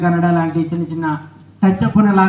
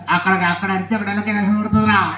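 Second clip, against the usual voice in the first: softer dummy voice, arguing; puppet character; 6 dB quieter than usual. Acted. Puppet explaining why the dog is silent, puppet voice. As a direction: argue back softly as the puppet.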